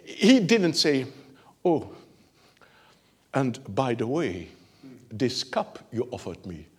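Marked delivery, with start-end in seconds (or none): 1.6-6.7 polite British request. Retold or imitated. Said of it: "he was not British".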